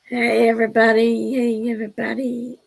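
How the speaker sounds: strained, hoarse from hours of a character voice; worn-out raspy voice. Real, not acted. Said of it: "Excuse my voice. I've been talking like Jody Sue".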